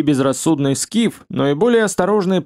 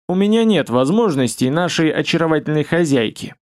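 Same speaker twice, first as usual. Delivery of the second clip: dark, bubbling, gurgling voice; gloomy gurgling voice. Acted. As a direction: gurgle it out gloomily like a swamp creature. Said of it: "мрачно булькающим голосом".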